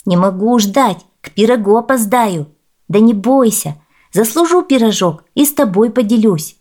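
put-on a touch of boyish bravado; lightly voiced eager boy. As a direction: call back as a boy in a hurry.

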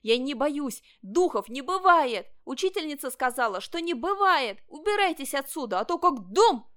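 loud, high-rising brave cry; defiant shout. A narrator's reading. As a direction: shout the ghosts away. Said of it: "Ванчо кричал". (отважный громкий крик)

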